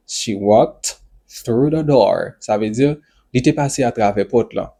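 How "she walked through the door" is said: slow, with the last words joined up; slow model. Shown as a demonstration. Teacher repeating an example for learners, slow and more connected.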